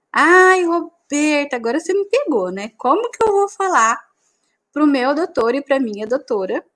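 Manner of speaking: half-playful plea for help; worried secretary. Retold or imitated. Secretary asking the trainer how to face the doctor, mock flustered.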